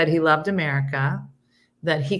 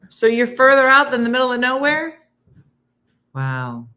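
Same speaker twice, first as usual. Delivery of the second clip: amazed; 8 semitones higher, 6 dB louder than usual. Real, not acted. Amazed reply to viewer.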